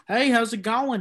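put-on light Texas accent; easy, understated Texan accent. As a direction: greet them in a casual Texas accent. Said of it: "do, like, a Texas accent".

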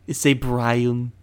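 loud cartoon-character impression; Stewie Griffin. Friend admits the impression's limits, still in character. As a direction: keep the cartoon voice going, loudly. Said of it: "trying to perfect my Stewie Griffin voice".

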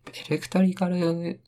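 エレクトリカル stretched slow and high; drawn-out word. Shown as a demonstration. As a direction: draw out エレクトリカル in a lifted voice. Stretched demo of the term. (エレクトリカルを高く引き伸ばして)

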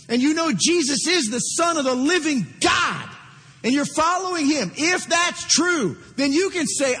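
rising, emphatic preacher's call; preaching with force. Real, not acted. Preacher urging the congregation to follow Jesus, emphatic call. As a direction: drive it home to the congregation.

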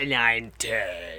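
put-on voice. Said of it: "That's not your voice".

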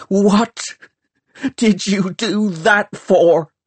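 high, loud furious shout; a girl shouting at a boy who has just killed her protector. A narrator's reading. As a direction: hurl the question at him in anger. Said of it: "she shouted".

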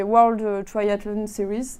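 slow, careful English-accent reading of World Triathlon Series. Shown as a demonstration. Triathlete to interviewer, jokingly in an English accent. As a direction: say the English name with an English accent, slowly. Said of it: "avec mon accent anglais".

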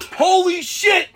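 high, loud comic alarm; retold panic. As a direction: act out freaking out with no plan. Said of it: "He freaks out".

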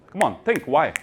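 normal talking voice

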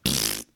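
low, short lip-puff scoff; dismissive pfft. Retold or imitated. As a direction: blow air through the lips in a scoff. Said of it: "start commenting like".

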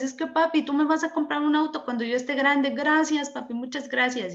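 put-on sweet boy thanking his papi; grateful child. Boy explaining his thanks to father.

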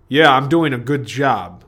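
a second self, said slowly; alter ego voice. Acted. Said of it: "I have alter egos".

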